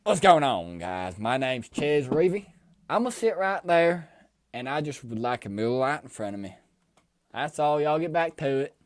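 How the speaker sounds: put-on a light, laid-back Texas cowboy accent. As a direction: saunter into the bar with a hint of Texas twang. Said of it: "give the people a little accent for Ches walking into a bar".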